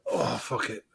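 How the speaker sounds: choppy call audio; bad connection. Real, not acted. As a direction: voice breaking up on the line. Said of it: "I don't know if I'm breaking up".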